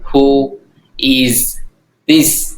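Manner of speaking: each word set apart, rising on this. Shown as a demonstration. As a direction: drill it slowly word by word. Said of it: "Bạn thích ai?".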